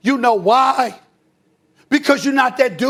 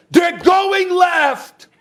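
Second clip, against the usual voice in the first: mild mock yell; 4 semitones higher, much slower than usual. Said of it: "people are screaming at them".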